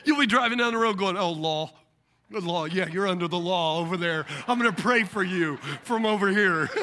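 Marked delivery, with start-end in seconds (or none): 1.2-6.7 low, laughing mock piety; smug self-righteous driver. A smug driver mocking others under the law, low and laughing. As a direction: sneer while pretending to bless.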